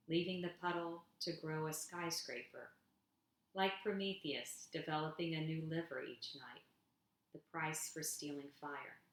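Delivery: gentle spoken-word delivery for an audience; poem reading. Acted. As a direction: read each image as if it's a small wonder. Reads her poem aloud.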